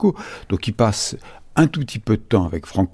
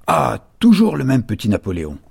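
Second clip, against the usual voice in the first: mildly indignant quoted outcry, pitched up; exasperated exclamation; 5 semitones higher than usual. Retold or imitated. Historian quoting Franco stamping his foot, exasperated exclamation. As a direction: read out an irritated exclamation with restraint. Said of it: "s'écria".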